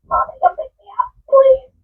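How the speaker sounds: put-on a scared kid begging to be rescued; pleading child. Upset fifteen-year-old texting her mom to come get her, pleading. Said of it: "text my mom and say".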